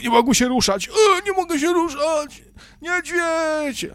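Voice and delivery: put-on panicked child voice. Mocking Bible story, frightened children cry they can't move. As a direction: play a frozen scared child. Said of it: "a dzieci tam po prostu stały".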